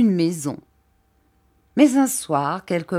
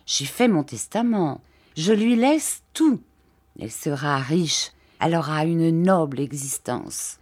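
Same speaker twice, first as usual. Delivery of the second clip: lightly voiced gentle old man, hesitant; timid old Mr Dick. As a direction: shyly ask permission, lightly voiced.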